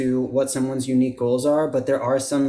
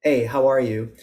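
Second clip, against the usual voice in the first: choppy, separated words; staccato. Shown as a demonstration. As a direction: clip each word apart. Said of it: "staccato would be more choppy".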